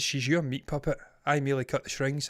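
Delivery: lightly voiced villain, hushed; a hint of Agatha's cold menace; quiet menacing quote. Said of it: "She says".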